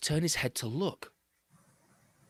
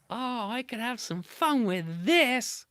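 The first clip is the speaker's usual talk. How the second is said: sly Anansi aside; 9 semitones higher, slower than usual. A narrator's reading. Anansi plotting mischief.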